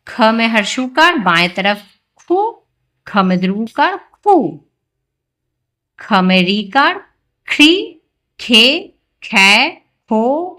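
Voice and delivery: loud, drawn-out syllable recitation. Shown as a demonstration. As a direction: say it loud for the children to repeat. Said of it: "थोड़ा जोर से बोलेंगे". (थोड़ा ज़ोर से, खींचकर बोलना)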